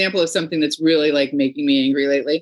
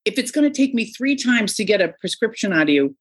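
sarcastic scolding, pitched up; exasperated complaint; 5 semitones higher than usual. Retold or imitated. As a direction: scold the office, fed up. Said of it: "I wanted to be like".

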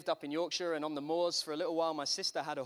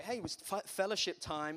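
mock churchy voice; 3 semitones higher than usual. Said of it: "You start saying things like".

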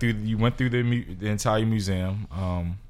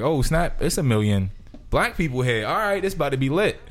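excited; 4 semitones higher than usual. Retold or imitated. Imagined reaction to huge crowd.

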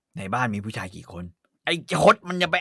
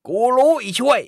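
angry accusation; 7 semitones higher, 5 dB louder than usual. Acted. Mother yells accusation.

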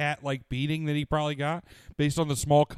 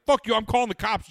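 mock yell; 10 semitones higher, 6 dB louder than usual. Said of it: "he was like".

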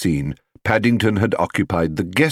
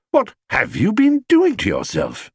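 higher, astonished father; 13 semitones higher than usual. A narrator's reading. Father to bear, astonished and higher. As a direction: demand it in disbelief. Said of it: "spluttered Mister Brown".

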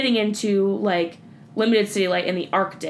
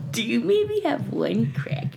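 Evan impression; 2 semitones higher than usual. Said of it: "that was a quote straight out of our friend Evan's mouth".

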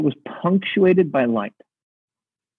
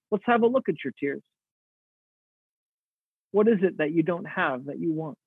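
softer, gently inquiring voice; compassionate curiosity; 2 semitones higher, 6 dB quieter than usual. Acted. God speaks to weeping Mary through angels, with gentle curiosity. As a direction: ask tenderly, with room to answer. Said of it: "meet her with compassionate curiosity".

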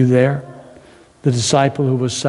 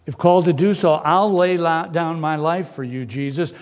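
higher, eager vow; earnest Peter; 4 semitones higher than usual. Acted. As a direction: promise it with everything. Peter vowing to Jesus.

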